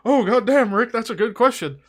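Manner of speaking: acting out the cartoon scene, the speaker apologizing to Rick; hammed-up apology skit. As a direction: ham up a guilty apology that keeps swearing.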